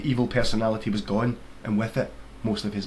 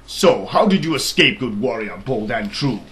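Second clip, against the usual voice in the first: booming, slow royal question; a king holding court; grand king; 7 dB louder, slower than usual. Acted. King asks the soldier how he escaped, booming.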